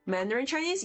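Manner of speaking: ordinary talk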